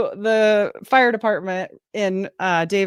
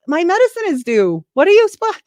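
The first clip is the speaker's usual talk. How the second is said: mock exasperated protest; 13 semitones higher, 4 dB louder, much faster than usual. Retelling son's embarrassment at Lagoon.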